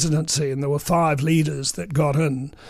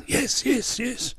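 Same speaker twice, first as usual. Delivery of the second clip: high, eager yes yes yes that trails off softer; eager yeses; 8 semitones higher, 5 dB quieter, slower than usual. Retold or imitated. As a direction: mimic an over-keen man hoping for good news. Jim eagerly taking the phone call.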